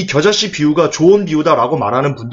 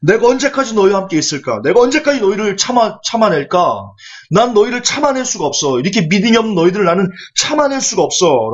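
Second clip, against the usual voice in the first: mildly exasperated rebuke; a touch of raised, reproachful complaint; retold scolding; 3 semitones higher than usual. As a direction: act out a teacher reproaching his followers. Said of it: "막 꾸짖".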